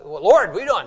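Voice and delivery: mildly exasperated prayer; mock-indignant appeal; a little angry. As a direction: complain to God with a touch of anger. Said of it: "I maybe getting a little angry".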